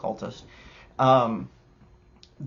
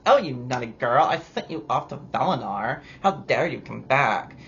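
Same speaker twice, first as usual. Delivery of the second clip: mock scolding king. Mocking the High King scolding.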